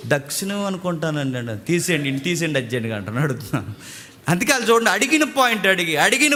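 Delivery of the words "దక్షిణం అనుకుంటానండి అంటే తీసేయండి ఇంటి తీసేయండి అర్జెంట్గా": groggy just-woken witness. Retold or imitated. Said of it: "నిద్రపోయి లేపితే ఇలాగ ఇలా గోక్కుని".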